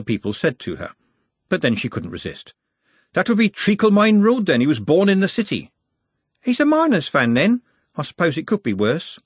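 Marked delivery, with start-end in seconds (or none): 3.1-5.7 Glenda voice. A narrator's reading. Glenda retorts. 6.4-9.2 put-on higher girl voice. A narrator's reading. Juliet answers, high.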